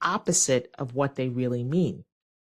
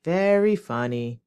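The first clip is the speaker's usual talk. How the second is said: sarcastic. Shown as a demonstration. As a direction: stretch VERY, clearly not amused. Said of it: "will be with a sarcastic tone".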